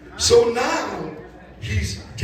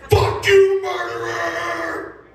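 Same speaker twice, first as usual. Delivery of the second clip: mock rage at the murderer; angry shout; 8 semitones higher, much slower than usual. Comic telling the ex's boyfriend off, furious shout. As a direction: yell it in his face, furious.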